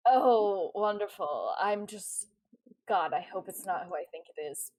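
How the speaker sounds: weary, sarcastic dread; sighing. Acted. Captain dreading who is on the other ship, sighing. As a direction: sigh it out, sinking after the first word. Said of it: "sighs and is like".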